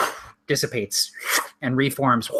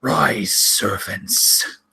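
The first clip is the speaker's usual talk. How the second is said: Frozen King commanding; 3 semitones lower, much slower than usual. Acted. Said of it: "he extends his hand out and he says".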